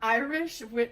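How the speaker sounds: "Irish wi-" breaking off mid-word; failed start at "Irish wi-"; tongue-tied. Real, not acted. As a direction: stumble and stop on "wi-". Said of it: "you can't say it".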